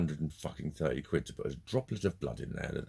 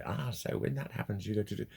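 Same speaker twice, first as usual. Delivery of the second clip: higher-pitched mock counsellor; anger management speak; 5 semitones higher than usual. People advising on anger, mocked anger-management speak. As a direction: mimic a therapist giving patient advice. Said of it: "in anger management speak".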